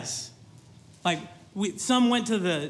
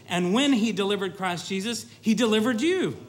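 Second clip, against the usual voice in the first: ordinary talk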